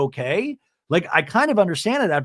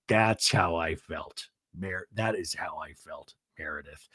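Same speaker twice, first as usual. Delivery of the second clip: mock Sean; 13 semitones lower, 9 dB quieter than usual. Sean's reply, mocked.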